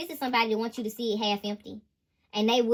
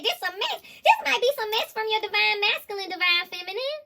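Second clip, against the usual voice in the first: voicing the masculine; 8 semitones higher than usual. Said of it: "Divine Masculine said".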